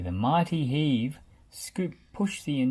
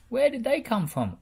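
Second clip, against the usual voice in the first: amazed; 10 semitones higher, 4 dB louder than usual. A narrator's reading. Rolly amazed.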